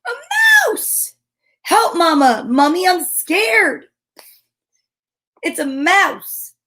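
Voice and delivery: a hammed-up shriek of fright at a mouse; mock frightened cry. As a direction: squeal for help like a scared little mummy.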